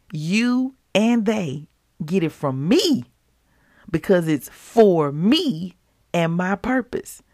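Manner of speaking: slow, firm correction as the Holy Spirit; corrective tone. Retold or imitated. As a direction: gently set her straight, slow and deliberate. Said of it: "in a very corrective tone".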